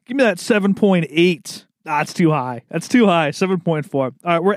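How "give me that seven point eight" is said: rising, eager call for a score; hyped up. Real, not acted. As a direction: pump it up, hoping. Building hype for score.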